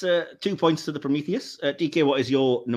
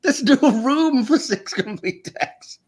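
retold disbelief; 10 semitones higher than usual. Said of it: "And I'm like".

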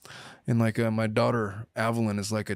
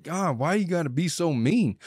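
exasperated mock complaint; 6 semitones higher than usual. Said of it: "like, grating".

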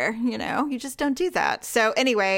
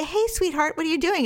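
higher, gentle coaxing to a shy puppy; 6 semitones higher than usual. Retold or imitated. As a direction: owner coaxing her timid new puppy, higher and gentle. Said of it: "I'd say".

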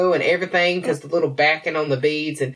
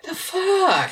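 laughing out a high "The fuck?"; real laugh through a shocked "The fuck?"; laughing disbelief; 13 semitones higher than usual. Real, not acted. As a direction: crack up mid-line, disbelieving. Laughing at the cashier's remark.

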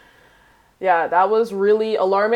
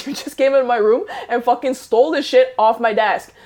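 heated retelling of an accusation; indignant accusation; 3 semitones higher, 4 dB louder than usual. Retold or imitated. Owner accusing the guy who took the camera, indignant. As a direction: lay out the theft, mildly worked up.

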